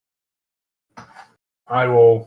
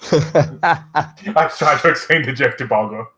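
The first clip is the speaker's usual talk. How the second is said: laughing; 4 semitones higher, slower than usual. Real, not acted. Retelling joke while laughing.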